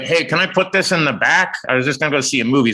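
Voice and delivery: lightly voiced guest with a cake; imitating a casual guest. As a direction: play it innocent and offhand. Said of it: "he was like".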